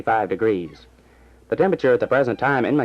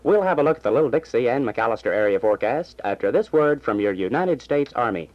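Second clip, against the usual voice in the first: brisk radio news delivery; news read. Acted. Small-town radio announcer reading the afternoon news. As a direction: read the bulletins like a station announcer.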